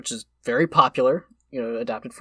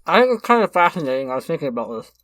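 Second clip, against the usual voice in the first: mouth full. Real, not acted. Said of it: "I'm gonna talk with my mouth full".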